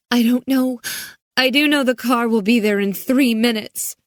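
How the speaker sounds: high, urgent scared voice; girl near panic; frightened girl. A narrator's reading.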